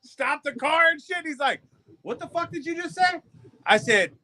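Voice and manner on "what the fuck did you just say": high, stunned mock demand; stunned disbelief. The foreman asks in stunned disbelief in the car. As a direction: ask it like you can't believe what you heard.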